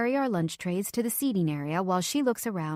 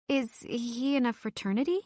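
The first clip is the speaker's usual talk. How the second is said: squeak; 5 semitones higher than usual. Acted. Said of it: "I squeak".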